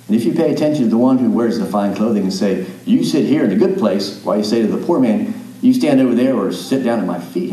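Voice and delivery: loud, driving scripture reading; full-voiced sermon reading; preaching scripture reading. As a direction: preach the passage with force. Reads scripture forcefully.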